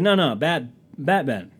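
acted-out insistent correction. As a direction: correct the listener emphatically. Retold correction of mishearing.

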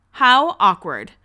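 dragged-out mock awkwardness; drawn-out cringe. Real, not acted. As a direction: lean into the cringe. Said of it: "That's all I can say".

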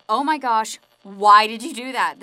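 acted outburst of shock; freaking out. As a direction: blurt it in mock alarm. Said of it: "the bartender freaks out".

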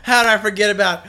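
real disbelief at forgetting it; excited outburst. Real, not acted. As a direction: exclaim in real dismay. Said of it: "I am so mad".

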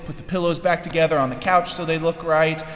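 rushed, flustered housekeeping chatter, fast; flustered and distracted. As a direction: hurry through it like a frazzled hostess tidying up. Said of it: "And she's distracted".

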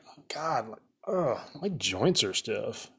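a hint of a sickly whine, slow and breathy on ugh; lightly mocking a worried patient; mock whiny complaint. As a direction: groan it like a hypochondriac.

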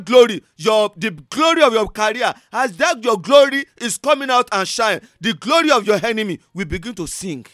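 fiery preacher's blessing; preaching at full force. Acted. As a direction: proclaim it over the congregation.

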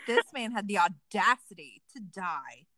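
indignant, outraged grumble; mock complaining. Widow complaining about her husband's audacity, mock indignant. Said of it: "I would be complaining about".

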